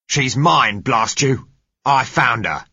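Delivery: high, forceful angry bellow; angry roar. A narrator's reading. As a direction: roar out your claim on her. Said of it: "roared the man who held her".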